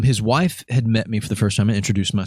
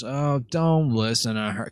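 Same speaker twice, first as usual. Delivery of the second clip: retold husband; 3 semitones higher, 4 dB quieter, slower than usual. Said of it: "He goes".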